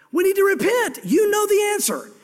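high, ringing call to repent; preaching shout. Real, not acted. Pastor urging his congregation to repent, shouting. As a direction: cry it out to the whole church.

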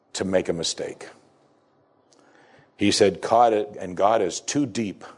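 slow, weighty read of each "God is too"; reverent, measured quotation; solemn reading. Acted. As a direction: read the son's note slowly, stressing "too". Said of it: "this is what our young son wrote".

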